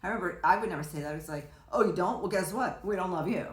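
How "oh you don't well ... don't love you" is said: mock parental retort. Imagined parent retorting to child.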